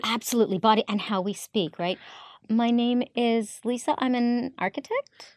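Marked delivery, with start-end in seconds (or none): 2.5-5.3 rising question tune on statements; uptalk. Shown as a demonstration. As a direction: end every sentence going up. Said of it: "Oh, the upspeak".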